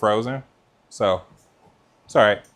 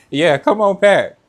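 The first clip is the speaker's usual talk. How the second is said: excited urging; 7 semitones higher, 7 dB louder than usual. Real, not acted. Urging viewer to come visit.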